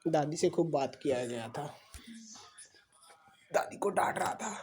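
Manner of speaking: breathy whisper to the room. Real, not acted. Father whispers that the boy scolded grandma, whispered. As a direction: whisper it, as a secret aside.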